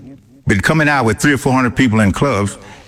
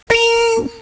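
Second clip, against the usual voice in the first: mock bing. Idea clicking, sound effect.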